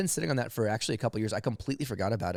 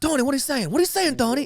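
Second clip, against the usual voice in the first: much higher, louder mock mafioso calling out; shouting at Tony; 14 semitones higher, 4 dB louder, faster than usual. Mafioso yells at Tony over bad zoom line, high mock shout. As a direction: yell into a broken call.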